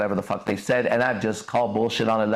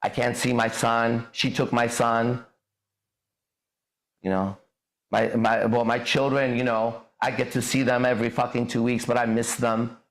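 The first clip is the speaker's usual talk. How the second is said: mocking whiny man. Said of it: "men who are acting like little girls".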